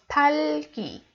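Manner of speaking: talki as one joined word, drawn out slowly; read together. Shown as a demonstration. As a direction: link the syllables in talki without a break. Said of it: "read it together".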